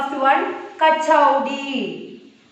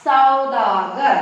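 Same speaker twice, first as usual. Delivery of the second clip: slow teaching read; 4 dB louder, much slower than usual. Shown as a demonstration. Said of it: "Here with sa we are using okay matra".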